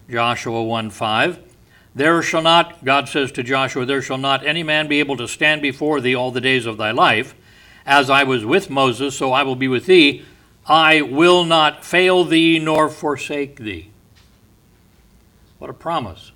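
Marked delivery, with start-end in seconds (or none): 1.9-13.9 preaching. Acted. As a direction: proclaim the verse with power. Preaching God's words to Joshua.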